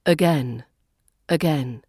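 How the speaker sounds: "again" starting on a relaxed uh; schwa in again. Shown as a demonstration. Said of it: "is the A at the beginning".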